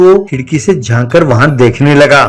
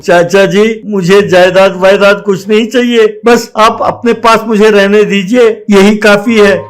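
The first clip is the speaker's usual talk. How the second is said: put-on higher, pleading young boy voice; boy begging his uncle not to send him away, higher pleading voice; 5 semitones higher than usual. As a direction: beg your uncle to let you stay. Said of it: "ऐसा उसने बहुत मिन्नत की".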